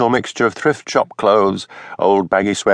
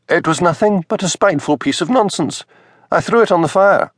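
higher, flustered minister's wife; rising higher as she gets flustered; 10 semitones higher than usual. A narrator's reading. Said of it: "She looked flustered".

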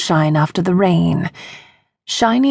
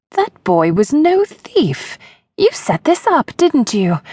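higher, deliberate accusation of a lady; accusing; 8 semitones higher than usual. Acted. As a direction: call his bluff, pointed and sharp. Percy accuses Gavin.

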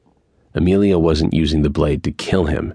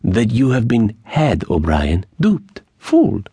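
put-on high accented voice, last words drawn out; Mexican bandit revealing; 6 semitones higher than usual. A narrator's reading. Bandit reveals O'Brien was tricked, drawn-out relish. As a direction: land each final word slowly and high. Narrator voices Angel's revelation.

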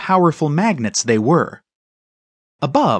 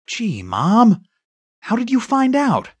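put-on sheepish boy caught out, rising high; mildly plaintive question to Mom; sad; 7 semitones higher than usual. A narrator's reading. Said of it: "Then he said sadly".

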